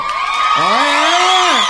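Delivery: a loud, high mock hooray; mock cheer. Comedian mocking patriotic fans, loud sarcastic cheer. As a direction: cheer it like a proud fan.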